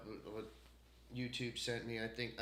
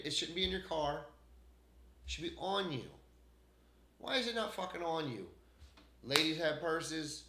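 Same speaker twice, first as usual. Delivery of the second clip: angry rant; 4 semitones higher than usual. Real, not acted. Ranting about carrying ID.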